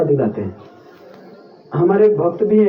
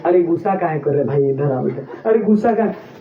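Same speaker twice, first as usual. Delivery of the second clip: mock soothing tease; 5 semitones lower than usual. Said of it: "यही बोलने से इसको गुस्सा आएगा".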